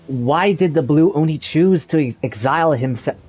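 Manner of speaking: trips over ex- and restarts the word; a flubbed read that catches on exile; stumbled take. Real, not acted. Actor fumbling exile in a recording booth, stumbling.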